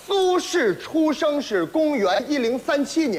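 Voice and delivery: slurred, unclear words; mumbled. Acted. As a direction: mumble it like a mouthful of socks. Garbled mumbled recitation.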